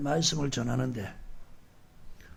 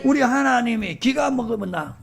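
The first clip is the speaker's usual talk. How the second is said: mocking a critic; 4 semitones higher than usual. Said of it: "그런 소리 들어봤어".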